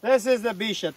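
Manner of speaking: usual speaking voice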